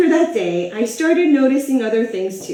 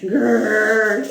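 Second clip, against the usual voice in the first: little grr; 4 semitones lower than usual. Shown as a demonstration. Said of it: "let out a little grr ... like this".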